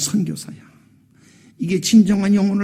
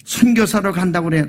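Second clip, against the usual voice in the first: ordinary delivery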